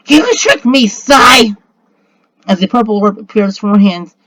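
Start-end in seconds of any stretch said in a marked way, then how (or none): 0.1-1.5 high, indignant mock scream. A narrator's reading. Harpy finds she was tricked, high screamed accusation. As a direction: cry out in a raised, accusing voice. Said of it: "she screams".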